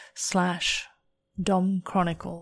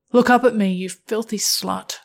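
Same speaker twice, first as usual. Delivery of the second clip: commanding dominatrix; 2 semitones higher, 6 dB louder, faster than usual. Acted. Dominant partner gives an order.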